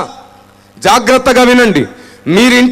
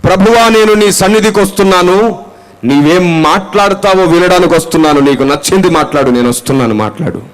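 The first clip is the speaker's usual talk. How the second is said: right prayer; 4 semitones lower, 5 dB louder than usual. Shown as a demonstration. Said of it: "ఆ ప్రార్థన చేయకూడదు".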